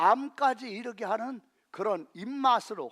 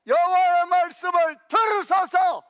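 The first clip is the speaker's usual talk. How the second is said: shouted again, "들으소서" loud, higher, falling at the end; urgent plea; 7 semitones higher, 7 dB louder than usual. Real, not acted. Preacher repeating his shouted appeal to the congregation. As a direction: press the appeal home. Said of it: "preaching climax repeated".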